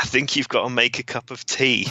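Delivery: loud call, shouted, a touch high. Retelling a video where one man shouts to someone fumbling with tea, retelling a shout. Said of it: "one guy shouts".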